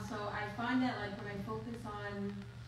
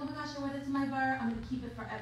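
mock sentimental gush; 3 semitones higher, faster than usual. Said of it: "emotional, like".

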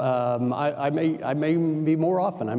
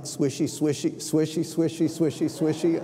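swishy sounds. Retold or imitated. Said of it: "they do, like".

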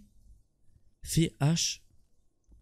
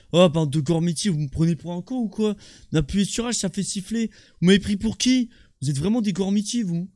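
angry rant; 3 semitones higher, 4 dB louder than usual. Real, not acted. Yelling at teammates in game.

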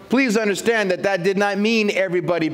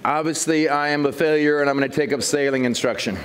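mock despair; 6 semitones lower than usual. Real, not acted. Joke after no answer.

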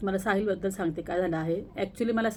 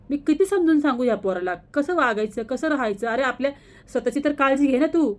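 higher, louder, fed-up scolding of her son; exasperated scolding; 4 semitones higher, 4 dB louder than usual. Real, not acted. Mother vents frustration at her careless son, exasperated and raised.

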